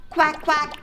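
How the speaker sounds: high-pitched quacking; playful ducky double quack; duck quack. Pretend. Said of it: "I'm a duck".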